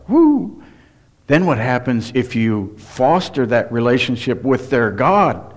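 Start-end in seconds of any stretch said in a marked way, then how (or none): 0.1-0.6 mock cheer. Child cheering at getting away.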